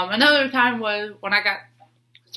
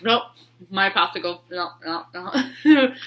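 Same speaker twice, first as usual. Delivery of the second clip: voicing the cat. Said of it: "she would be like".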